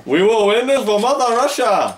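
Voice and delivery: high, loud battle cry; rally the troops for the motherland; patriotic shout. Pretend. Rallying cry in Russian map game.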